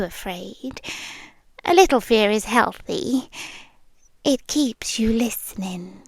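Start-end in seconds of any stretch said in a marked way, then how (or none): 4.2-6.0 menacing whisper. Acted. Menacing aside.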